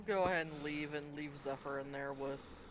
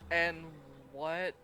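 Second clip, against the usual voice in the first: rising, puzzled question; incredulous; slower than usual. Acted. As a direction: ask it baffled and suspicious. Shay confronts impostor.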